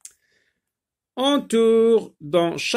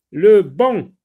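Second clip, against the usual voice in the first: loud, higher announced word; dictation style; 4 semitones higher, 10 dB louder than usual. Shown as a demonstration. Teacher announcing a new word to pupils, loud dictation style. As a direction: call out the new word clearly.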